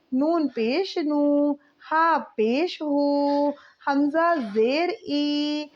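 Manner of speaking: each letter, vowel mark and sound read out slowly; patient, drawn-out spelling chant; slow syllable drill. Shown as a demonstration. Teacher reads syllable drill.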